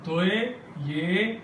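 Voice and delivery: توئے said slowly and softly; letter sound demo. Shown as a demonstration. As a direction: stretch out توئے. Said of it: "یہ آواز ہے توئے کی یا تے کی".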